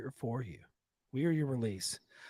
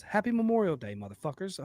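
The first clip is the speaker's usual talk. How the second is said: loud sign-off; 7 semitones higher, 6 dB louder than usual. Acted. Show sign-off greeting.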